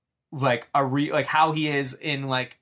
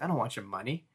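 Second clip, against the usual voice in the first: quiet menace; 2 semitones lower, 9 dB quieter, faster than usual. Retold or imitated. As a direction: hush it with quiet threat. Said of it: "He's like".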